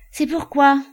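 loud, high grumpy snap. Acted. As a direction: bark it out in a bad mood. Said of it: "de mauvaise humeur".

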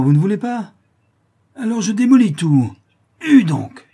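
put-on drunk bully counting down, rising to a loud, high roar; threaten, then explode; raging drunk about to smash the door; threatening drunk brute.

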